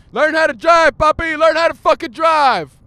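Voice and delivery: furious high shout at another driver; road-rage yelling. Real, not acted. Driver berating a bad motorist, furious yelling. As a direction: yell it full force over the traffic.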